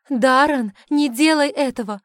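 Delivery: high, loud urgent cry; hasty shout. A narrator's reading. The heroine shouts to stop the boy, high and urgent. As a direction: yell the warning fast. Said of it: "поспешно выкрикнула я".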